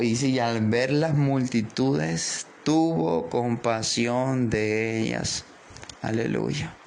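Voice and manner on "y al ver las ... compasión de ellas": slow, solemn scripture reading; unhurried preacher reading the verse. Acted. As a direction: read it weighty and slow. Reads scripture slowly.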